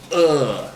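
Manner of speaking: pained grunt. Retold or imitated. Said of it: "to hold in the pain".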